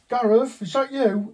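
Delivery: high, loud mock call across the office. Manager to agent hiding under the desk, calling out. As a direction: call out as if searching for him.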